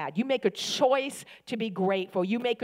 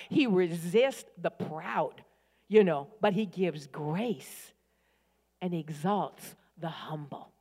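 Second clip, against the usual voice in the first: slow solemn repeat; 3 semitones lower, slower than usual. Real, not acted. Repeats scripture slowly.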